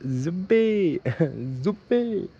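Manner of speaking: high, hammed-up call breaking into a laugh; mock yelling. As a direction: imitate a guy shouting a wake-up call, laughing midway. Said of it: "crazy Arab is yelling".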